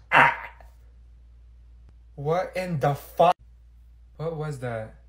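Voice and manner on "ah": a short guttural burp-like croak; demonic throat croak. Acted. Olivia's strange throat noise in class, guttural croak. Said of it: "sounded like a demon talking in someone's throat".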